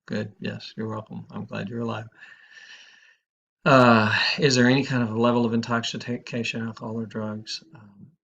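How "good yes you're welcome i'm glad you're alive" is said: soft, mild reply with a smile; smiling reassurance. Retold or imitated. Counselor answering an angry rescued caller, softly smiling. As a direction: gently let the insult roll off. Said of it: "I just smile and go".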